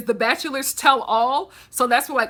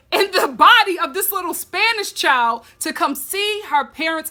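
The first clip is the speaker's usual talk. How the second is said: slower, higher hyped-up coaching to the screen; mock matchmaker pep talk; 3 semitones higher, 4 dB louder, slower than usual. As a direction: talk her into it like a meddling friend. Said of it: "I was just like".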